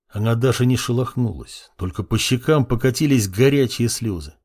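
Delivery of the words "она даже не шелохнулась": usual speaking voice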